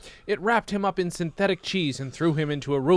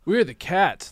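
surfer cat; 6 semitones higher, 6 dB louder, slower than usual. A narrator's reading. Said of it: "the surfer said".

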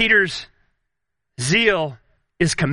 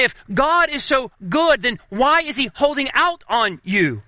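tempter's insinuation; 3 semitones higher than usual. Retold or imitated. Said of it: "You hear him say".

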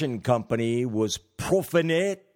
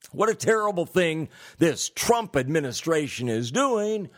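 higher, ironic indignation; tongue-in-cheek outrage; sarcastic mock outrage; 4 semitones higher than usual. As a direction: feign shock at picking on enemies. Mock outrage at Treasury sanctions.

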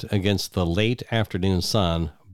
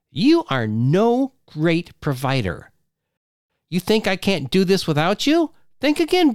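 angry wife; 10 semitones higher than usual. Acted. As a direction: throw him out at the top of her voice. Wife pokes his chest.

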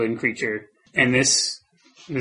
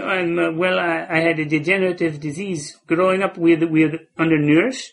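high, halting stammering panhandler; hesitant beggar voice; 4 semitones higher than usual. Acted. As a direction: stammer out a shy plea for bus fare. Same beggar character.

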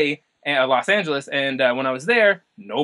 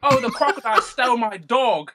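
high-pitched, British-tinged Aussie mimicry; badly faked Australian drifting into British; attempted Australian accent, sounding British; 6 semitones higher than usual. Shown as a demonstration. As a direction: copy an Aussie accent but slip into British. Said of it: "like, a British accent".

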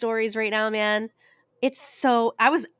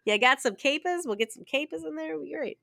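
put-on Italian accent; 4 semitones higher than usual. Host clowning about pantry cooking, mock Italian accent. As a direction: sell the capers like a mock Italian cook. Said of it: "Getting your Rolodex of Italian out".

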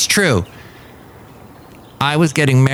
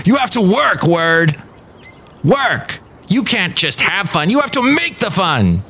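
mock German accent; 7 semitones higher than usual. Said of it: "do the German accents".

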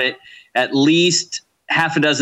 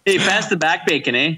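mock Canadian accent; 3 semitones higher than usual. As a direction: tease with a fake Canadian "eh?". Joining the mock Canadian bit.

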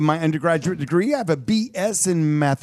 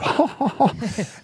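cute laugh; 6 semitones higher than usual. Pretend. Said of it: "This is your cute laugh".

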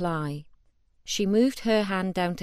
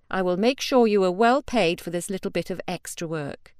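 cold Ashol order; 4 dB louder than usual. Acted. Ashol gives the kill order.

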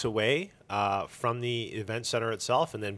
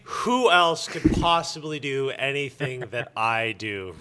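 hammed-up self-important boast, a bit louder; mock arrogance; 4 semitones higher, 16 dB louder, slower than usual. Organizer mocking himself to listeners, with lightly hammed-up smugness. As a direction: play the smug egomaniac, lightly. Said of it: "sets me up to sound like a complete douchebag".

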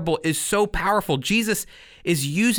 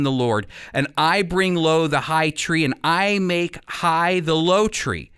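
scripture reading. Acted. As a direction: declare the Lord's words with authority. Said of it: "which sounds like this. Listen to this".

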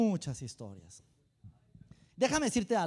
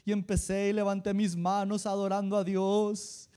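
mock teary testimony; 4 dB louder, slower than usual. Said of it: "así como que entre llorando".

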